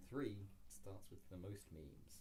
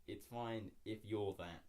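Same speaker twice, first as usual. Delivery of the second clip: slow deliberate reading; 5 dB louder, slower than usual. Shown as a demonstration. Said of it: "it says".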